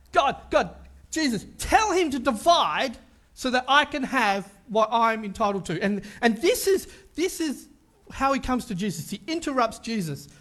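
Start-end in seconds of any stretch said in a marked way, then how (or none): 0.1-5.8 entitled demand. Retold or imitated. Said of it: "only interested in one person, himself".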